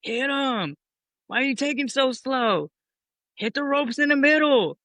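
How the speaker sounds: imitating a coach calling instructions; Pops in the head. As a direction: nag the wrestlers like a ringside coach. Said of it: "Pops is in my head".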